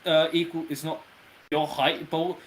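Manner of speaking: bubbly fizzy voice from inside the bubble; fizzy frothy bubbly voice. Acted. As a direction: play the voice of a bubble. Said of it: "You doing the bubble voice".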